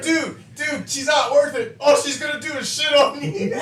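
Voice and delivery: hammed-up desperate shout while laughing; laughing mock plea. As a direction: beg the attacker through laughter. Harry begging while blocking bat.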